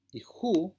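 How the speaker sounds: "ju" whispered high, a breathy h before u; rough breathing demo. Shown as a demonstration. Teacher demonstrating rough breathing on the diphthong, whispered. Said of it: "es el sonido de esa omicron y upsilon".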